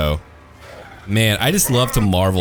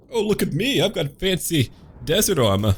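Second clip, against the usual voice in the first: mock boast; 9 semitones higher than usual. Mocking enemy skeletons' boast.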